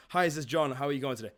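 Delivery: loud, pushy cold-call greeting; too loud, pushy. Shown as a demonstration. Sales coach shows a bad phone opener, too loud. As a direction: blast the greeting at a stranger. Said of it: "on the phone yelling at me".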